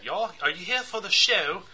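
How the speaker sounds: imitating a heavy British accent; mock British accent. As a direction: put on a British accent for the guy's question. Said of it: "real, real heavy British accent".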